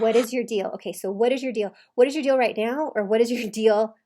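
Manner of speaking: loud mock demand; imitated exasperation. Coach repeating husband's question to wife, loud mock exasperation. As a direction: demand it loudly, punching the words.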